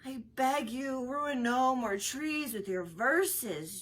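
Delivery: slow, drawn-out weary pleading; exasperated plea. A narrator's reading. Jocks pleading with Orlando to spare the trees, exasperated. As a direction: beg him to stop, worn out. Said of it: "telling him exasperatedly".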